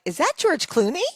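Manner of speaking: starstruck gasp. Retold or imitated. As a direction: ask it like you spot a star. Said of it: "we're like".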